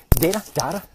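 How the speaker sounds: "Data, data", first DAY-ta, then DAT-a; two pronunciations. Acted. Zuckerberg unsure of the word, "Data, data" said two different ways. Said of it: "Is it data or data?".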